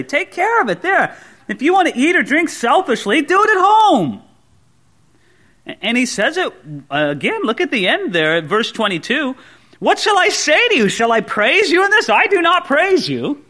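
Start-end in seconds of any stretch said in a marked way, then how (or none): 0.0-4.2 Paul telling them off. Retold or imitated. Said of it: "that's what Paul would say". 9.8-13.4 exasperated Paul. Retold or imitated. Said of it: "Paul sounds exasperated".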